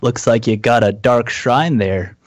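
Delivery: overlord impression. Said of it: "do your best impersonation of an overlord".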